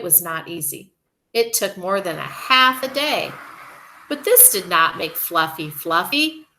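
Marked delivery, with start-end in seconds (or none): none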